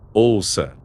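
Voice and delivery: barely contained eagerness, just a hint; hint of excitement. A narrator's reading. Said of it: "discreta nota de excitação". (leve nota de excitação)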